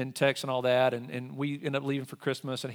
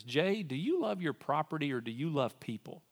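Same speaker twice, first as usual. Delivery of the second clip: voice of the Lord; 3 dB quieter than usual. Retold or imitated. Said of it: "what I heard from the Lord".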